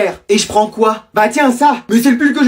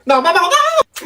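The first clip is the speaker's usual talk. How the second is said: stretched, higher slow-motion cry; 8 semitones higher, much slower than usual. Acted. Kid begging mom not to quit the game, slow-motion cry. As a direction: drag it out like a movie slow-mo.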